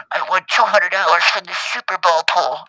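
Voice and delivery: high, loud mock-thrilled mother; excited mom. Mom telling Joe she won the pool, excited imitation. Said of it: "She calls me at work all excited".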